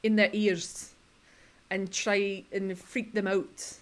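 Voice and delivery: lightly imitated Scottish contestant; attempted Scottish accent. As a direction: try a Scottish accent and give up halfway. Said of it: "Scottish accent, but she's like".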